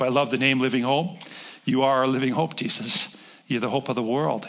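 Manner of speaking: steady closing prayer to God. Acted. Pastor praying for the church, earnest prayer. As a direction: pray it over the room.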